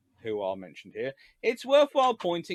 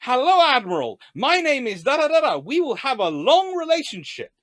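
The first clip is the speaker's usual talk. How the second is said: hammed-up new minister; 8 semitones higher, 9 dB louder than usual. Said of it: "Minister goes".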